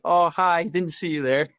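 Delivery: a touch of phoney surprise; feigned surprise. Retold or imitated. Retells pretending to just notice him.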